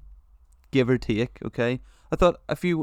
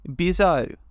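Australian accent; 4 semitones higher than usual. Shown as a demonstration. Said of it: "can you do it again".

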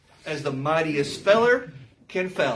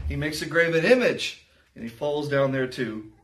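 scripture reading. Acted. Preacher reading Isaiah to the congregation, solemn. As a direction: read the verse with gravity.

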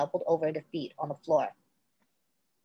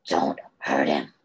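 much lower, slow, weak plea; weak and distant; slower than usual. A narrator's reading. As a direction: plead faintly from far away. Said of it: "weak and distant".

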